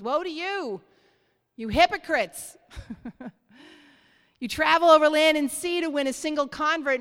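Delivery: forceful scripture reading. Acted. Preacher thunders Jesus' woes at the congregation, forceful reading.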